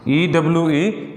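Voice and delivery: letters spelled out slowly, one by one; slow spelling. Shown as a demonstration. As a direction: spell "ई डब्ल्यू ई" slowly, each letter apart. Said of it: "इसको बोलते हैं यू".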